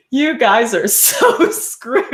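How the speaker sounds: high, slow, laughing so hard the words barely come out; imitating a big guy cracking up; laughing through words. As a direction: gasp it out mid-laugh. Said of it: "can't even, like, get the sentence out properly 'cause he's laughing".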